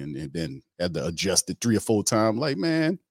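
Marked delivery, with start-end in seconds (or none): 2.4-3.0 lightly voiced high "man"; a quick high mimic of the officer; mock cop voice. Retold cop says man, high voice.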